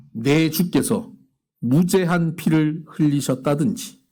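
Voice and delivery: slow, solemn Bible reading; measured recitation of scripture from the pulpit. Acted. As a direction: read the verse slowly and gravely. Reads scripture aloud.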